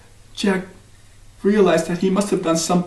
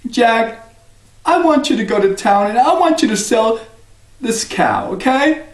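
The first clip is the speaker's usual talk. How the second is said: a hint of a higher mother voice; mother's voice; 7 semitones higher than usual. Mother tells Jack to sell the cow, lightly higher. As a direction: gently tell your son what to do.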